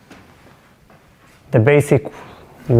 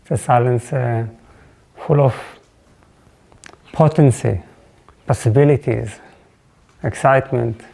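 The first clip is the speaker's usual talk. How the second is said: reflective opening blessing; 2 semitones lower than usual. Real, not acted. Teacher blessing the silence before class, reflective and unhurried.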